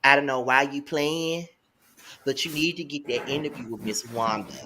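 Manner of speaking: lightly imitated New Orleans accent. Host mimicking a friend scolding her, light New Orleans accent. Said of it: "try to say it in her New Orleans accent".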